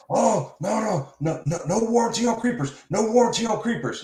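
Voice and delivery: high-pitched panicky refusal; mock freak-out. Tool dealer refusing a customer before he can ask, mock freak-out. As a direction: imitate a flustered salesman, voice jumping up high. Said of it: "you're freaking out going".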